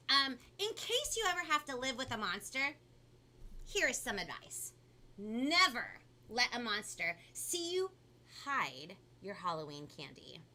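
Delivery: animated storybook reading with punched key words; lively, theatrical story narration; picture book read-aloud. A narrator's reading. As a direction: read it to children with big swoops of pitch. Reads picture book to children.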